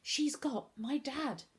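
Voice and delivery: slow, high, crying voice; tearful. A narrator's reading. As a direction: say it helplessly through tears. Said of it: "couldn't stop the hot tears".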